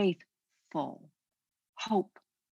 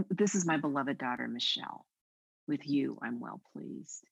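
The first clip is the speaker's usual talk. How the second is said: tender blessing; 3 semitones lower than usual. Acted. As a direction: gently bless her by name. Repeats blessing with name.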